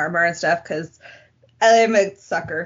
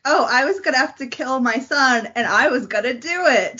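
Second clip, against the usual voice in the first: higher-pitched mock boast; mocking villain quote; 6 semitones higher than usual. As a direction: throw the words back in exasperated imitation.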